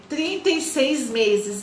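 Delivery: "trinta e seis meses" drawn out slowly; stress on TRINTA E SEIS MESES. Real, not acted. Stresses the length of payments. ("trinta e seis meses" dito devagar, com ênfase)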